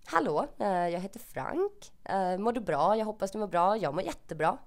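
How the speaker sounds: lilting sample of spoken Swedish; native Swedish. Shown as a demonstration. Vlogger saying random Swedish sentences for listeners, native Swedish. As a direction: speak natural Swedish to show how it sounds. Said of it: "the way the Swedish sounds".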